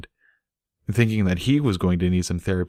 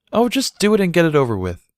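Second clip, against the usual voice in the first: higher, louder consoling nudge; 10 semitones higher, 5 dB louder than usual. A narrator's reading. Mare consoling Bucky about the soup. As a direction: console him into it. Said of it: "said in consolation".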